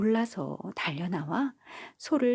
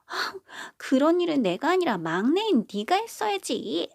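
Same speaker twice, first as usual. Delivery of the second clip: higher, louder indignant retort; glaring at sister; 8 semitones higher, 4 dB louder than usual. Acted. Second daughter blaming the youngest sister, higher indignant retort. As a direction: blame the little sister, huffy and high. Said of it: "둘째 딸은 막내딸에게 눈을 흘겼어요".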